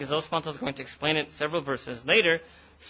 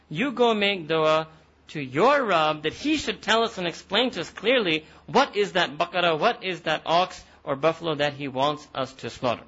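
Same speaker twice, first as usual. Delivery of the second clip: pushy demand; 3 dB louder than usual. Retold or imitated. Mimicking the people's demand to Musa.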